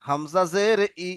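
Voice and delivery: slow, drawn-out syllable spelling for the class; slow repeat-after-me drill. Shown as a demonstration. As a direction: spell হামজা জের ই slowly, syllable by syllable. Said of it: "বলেন আমার সাথে সাথে". (ধীরে ধীরে বানান করে পড়া)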